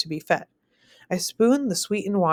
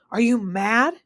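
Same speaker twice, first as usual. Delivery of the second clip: shout; 4 semitones higher, slower than usual. Acted. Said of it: "he shouts".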